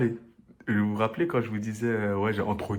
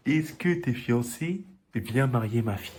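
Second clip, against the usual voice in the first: mocking aunt's question; 3 semitones higher, slower than usual. Imite la tata qui insiste.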